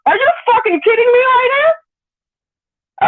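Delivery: high, slow, stretched out in disbelief; incredulous outrage. Real, not acted. Streamer ranting at fighter, incredulous and slow. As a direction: drag each word out in shock.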